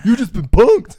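high and loud, laughing through it; laughing, loud punchline. Real, not acted. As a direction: blurt it out cracking up.

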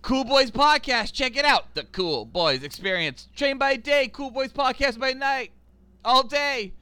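booming hype announcer intro; big high hyped-up promo voice. Retold or imitated. Joe Rogan style podcast intro.

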